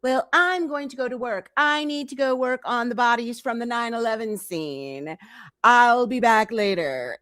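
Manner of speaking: a hint of a chirpy, carefree pet owner; mock cheery Rochelle. Rochelle leaving her fish for work, lightly mock cheerful. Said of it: "she's like".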